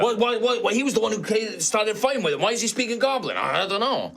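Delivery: high, stammering creature voice; confused satyr. Acted. Satyr puzzles over stranger speaking Goblin, confused.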